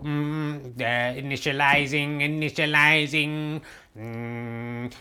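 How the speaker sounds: clangy metallic robot drone. Pretend. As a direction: speak like a booting machine. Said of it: "the robot voice".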